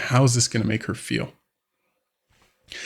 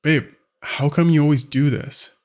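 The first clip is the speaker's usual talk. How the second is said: mildly upset, higher-pitched complaint; 4 semitones higher than usual. Acted. Wife confronting husband over a repeated habit, mildly upset. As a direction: act out a partner getting a little fed up. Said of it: "she starts getting more upset".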